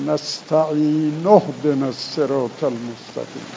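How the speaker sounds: نستعین flowing straight into اهدنا with the hamza dropped; joined recitation. Shown as a demonstration.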